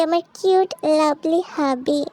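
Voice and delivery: slowly spelled-out endearment at normal pitch; slow model phrase. Shown as a demonstration. Husband teaching his wife her reply, slow and measured. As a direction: model the endearment word by word, unhurried. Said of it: "তুই বলবি".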